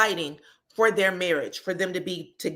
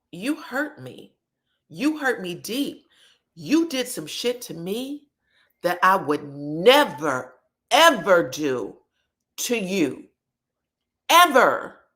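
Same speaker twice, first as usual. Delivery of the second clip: hurt pleading; slower than usual. Retold or imitated. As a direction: drag it out like someone deeply hurt, then burst out. Wife confronting husband, quoted.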